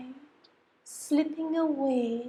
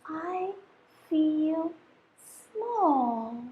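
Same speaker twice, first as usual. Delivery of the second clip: small voice; 5 dB quieter, much slower than usual. Acted. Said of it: "she said to the whale".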